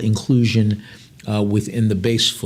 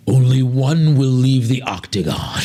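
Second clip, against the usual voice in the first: slow, louder, dramatic announcer line; mock fight announcer; 3 dB louder, slower than usual. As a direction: announce it like a cage-fight promo.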